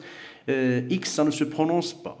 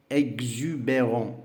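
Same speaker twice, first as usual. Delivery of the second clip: slow model word; slower than usual. Shown as a demonstration.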